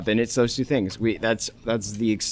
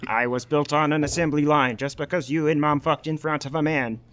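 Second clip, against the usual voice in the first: put-on whiny teen; 4 semitones higher than usual. Teen robot ranting at dad.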